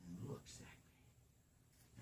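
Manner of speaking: slow, hushed whisper; slow spooky whisper. A narrator's reading. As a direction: draw it out in a creepy whisper. Repeated for suspense.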